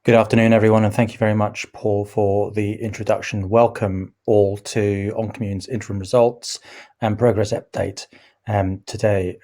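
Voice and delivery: slightly croaky, hoarse speaking voice. Real, not acted. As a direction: speak through a croaky throat. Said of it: "Apologies for my croaky voice".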